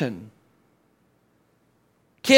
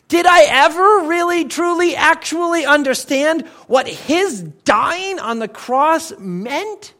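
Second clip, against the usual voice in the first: pressing doubt; 6 semitones higher than usual. Pretend. Same doubt repeated, pressing harder.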